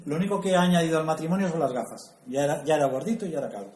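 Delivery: laughing at himself; joking. Real, not acted. Self-mocking joke about his baldness. (broma riéndose de sí mismo)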